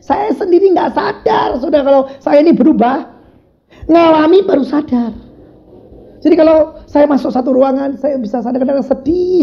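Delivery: high, stretched-out sermon testimony; fervent preaching. Real, not acted. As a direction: testify with rising fervor. Preaches at full force. (kesaksian khotbah berapi-api)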